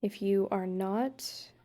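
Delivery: calm guided-meditation voice with long pauses; unhurried, even-toned meditation leading. Acted. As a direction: gently guide a couple through a meditation, leaving space between phrases. Leads couples' guided meditation.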